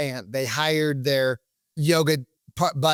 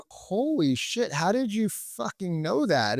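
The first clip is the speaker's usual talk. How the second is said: slow, hushed astonishment, pitched up on "holy"; amazed; 4 semitones higher, slower than usual. Acted. Prospect stunned that the salesperson guessed right, amazed. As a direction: draw it out in mock awe.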